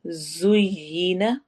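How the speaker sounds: जुय्यिना drawn out with a whistling z; slow recitation. Shown as a demonstration. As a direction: hiss the z in जुय्यिना, slowly. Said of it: "सीटी की आवाज़ होगी".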